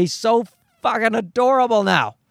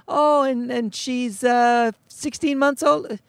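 oblivious stranger; 5 semitones higher, slower than usual. Retold or imitated.

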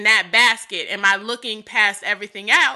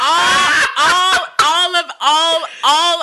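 laughing through words; 4 semitones higher, 4 dB louder, much slower than usual. Real, not acted. Laughing, trying to regain speech.

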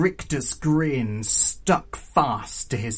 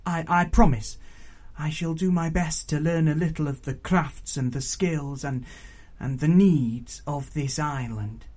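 put-on earnest young Pignut; 3 semitones higher than usual. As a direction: repeat the vow earnestly, a little hesitant.

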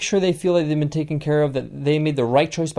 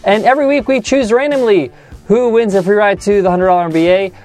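loud promo read, pitched up; upbeat announcer; 5 semitones higher, 8 dB louder than usual. Acted. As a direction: project it like a radio giveaway plug. Announces winner, plugs reviews.

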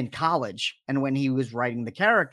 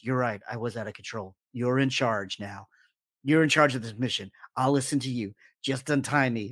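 a hint of calm manipulation; calm lying Batman; 4 semitones lower than usual.

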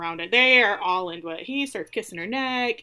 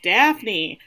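calling out; 6 dB louder than usual. Retold or imitated. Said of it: "Then he's like".

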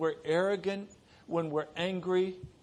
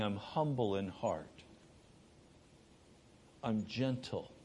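soft and gentle; 6 semitones lower, 5 dB quieter than usual. Acted. Jesus speaking to the weary, soft and low. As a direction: lower and softer, hushed. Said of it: "The softer the voice of Jesus".

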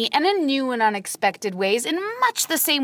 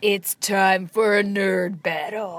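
slow, deep announcer intro; a lighter go at the big intro; 4 semitones lower, slower than usual. Pretend. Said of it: "do your best nerd battle voice".

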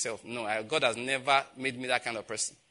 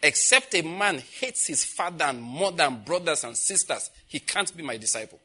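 solemn scripture pronouncement; 2 semitones higher, 3 dB louder than usual. Retold or imitated. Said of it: "word of the Lord came to me saying".

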